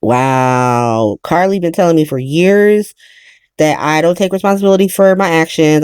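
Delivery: low, lightly voiced moment of clarity; mock realization. Mother having a moment of clarity, low and hushed. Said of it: "where she's like".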